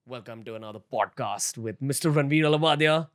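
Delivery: grand radio show intro; radio host voice. Pretend. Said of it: "Sounds like a radio show has started just now".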